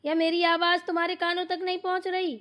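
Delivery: loud, high scolding yell; yelling for everyone. Acted. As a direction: shout for the household from afar. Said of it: "फिर से चिल्लाने लगी mummy जी". (घर भर को ऊँची आवाज़ में चिल्लाना)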